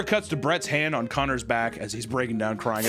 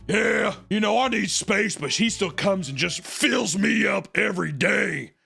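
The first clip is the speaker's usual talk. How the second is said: higher-pitched mock Taylor, drawn-out ending; lightly mock her, higher and slower at the end; 6 semitones higher, slower than usual. Voicing Taylor in retelling.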